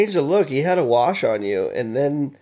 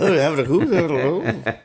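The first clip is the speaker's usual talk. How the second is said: bad British accent; 6 semitones higher, 4 dB louder than usual. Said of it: "The worst accent".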